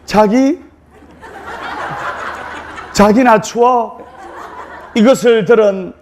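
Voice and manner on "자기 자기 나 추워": lightly coy Seoul bride, slowed and cooing; a hint of a Seoul bride complaining she's cold. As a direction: play a sweetly whining new bride, lightly. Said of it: "서울말로".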